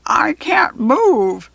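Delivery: high, slow, muffled goblin wail; trapped goblin wailing through cloth. A narrator's reading. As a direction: wail from inside the costume. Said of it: "came a muffled wail".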